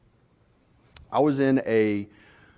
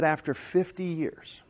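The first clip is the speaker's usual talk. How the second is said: tearful wife; 5 dB quieter, slower than usual. Acted. Wife voiced in joke.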